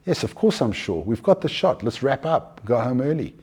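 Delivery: lightly voiced self-assured photographer; confident photographer. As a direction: reassure the client with easy confidence. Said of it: "that level of confidence".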